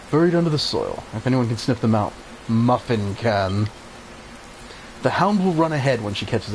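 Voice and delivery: lightly voiced elder, measured and solemn; a hint of a wise old guardian; wise old village elder. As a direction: read it like a kindly mentor giving orders. Reads wise elder's lines.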